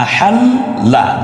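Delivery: আহাল্লা high and slow, লল held; doubled l stressed. Shown as a demonstration. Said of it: "দুইবার উচ্চারণ হয়ে গেল". (আহাল্লা ল দুইবার জোর দিয়ে)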